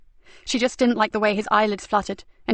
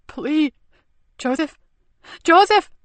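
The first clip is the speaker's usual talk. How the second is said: desperate cry; 7 semitones higher, 4 dB louder, slower than usual. A narrator's reading.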